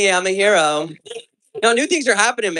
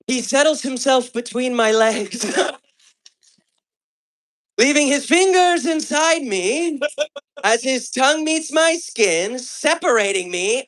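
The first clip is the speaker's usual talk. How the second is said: reading the wife's book aloud; 4 semitones higher than usual. Retold or imitated. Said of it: "this is what the fuck she said".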